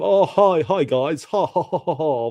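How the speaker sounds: mock posh greeting with a fake laugh; Twickenham toff. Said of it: "like you at Twickenham".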